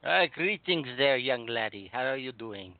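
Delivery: slow, lightly put-on Scottish accent. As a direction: greet him in a hammy Scottish accent. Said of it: "what's with the accent".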